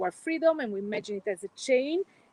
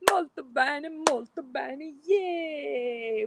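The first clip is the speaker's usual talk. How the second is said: cheerful cheer; 5 semitones higher, much slower than usual. Acted. Cheering after exercise.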